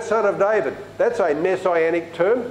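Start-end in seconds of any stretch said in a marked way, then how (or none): 0.0-0.8 calling out. Acted. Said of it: "Bartimaeus calls out".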